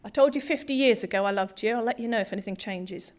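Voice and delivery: a hint of a broad Yorkshire husband, matter-of-fact; broad Yorkshire accent. Yorkshire husband answering his wife at their anniversary, lightly put-on Yorkshire accent. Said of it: "In his broad Yorkshire accent".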